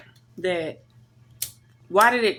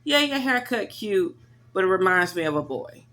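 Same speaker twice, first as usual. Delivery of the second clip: put-on old lady voice. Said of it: "something an old lady would say".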